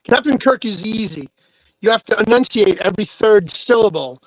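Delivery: halting delivery with odd pauses; William Shatner. Shown as a demonstration. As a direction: enunciate hard and break phrases mid-sentence. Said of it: "in order to sound like William Shatner".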